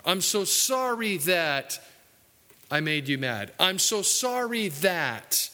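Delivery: a lightly hammed-up whining apology; whiny sorry sinner. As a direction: stretch out every so sorry like a sulky penitent. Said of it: "people who are".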